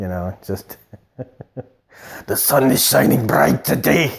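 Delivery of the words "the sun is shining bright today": put-on menacing, murderous tone. Showing how a character sounds about to kill you whatever he says, mock-menacing voice. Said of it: "like he's about to kill you".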